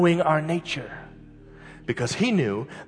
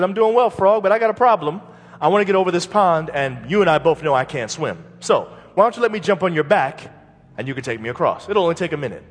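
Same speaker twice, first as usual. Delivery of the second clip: persuasive scorpion; 4 semitones higher, 6 dB louder, faster than usual. Acted. Scorpion pleads in fable.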